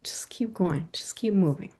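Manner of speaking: unvoiced whisper to oneself; urgent little aside under the breath; hushed self-coaching. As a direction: whisper it like a private reminder.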